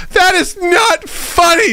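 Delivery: high, slow, hammed-up indignation; indignant wife. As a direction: play the offended wife, dragging it out. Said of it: "She goes".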